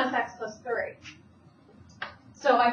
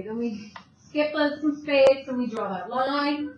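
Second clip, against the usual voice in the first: Italian accent; slower than usual. Real, not acted. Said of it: "I totally said that with my Italian accent".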